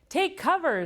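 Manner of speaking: a sudden high warning yell. A narrator's reading. Amelia Bedelia warning the class, yelling. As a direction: shout it out like the volcano is blowing. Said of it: "yelled Amelia Bedelia".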